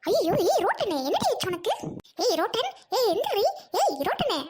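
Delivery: loud, urgent cries to wake her; panicked calls over a fallen friend; alarmed calling out. Acted. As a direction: shout her name to rouse her. Finds friend collapsed on road.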